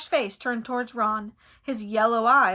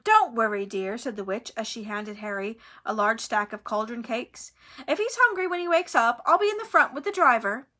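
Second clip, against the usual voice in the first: motherly trolley witch; kind trolley witch. Acted. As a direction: reassure the children cheerfully. Trolley witch speaks kindly.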